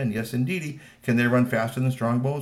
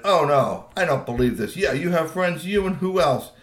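higher and louder, jeering with cackling laughs; mocking taunt; 7 semitones higher, 7 dB louder than usual. Troll jeering at the human, cackling with scorn. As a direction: laugh right in his face. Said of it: "He stood up and he said".

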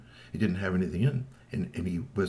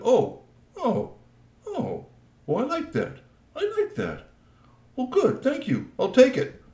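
much higher, gleeful and loud; delighted troll; 5 dB louder, slower than usual. Acted. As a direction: gloat like a greedy troll. Troll delighted, takes recorder.

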